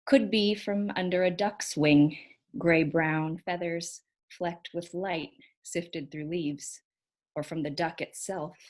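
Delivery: unhurried verse recital, pausing between images; poetry reading. Acted. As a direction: announce the title, then recite line by line. Reads own poem aloud.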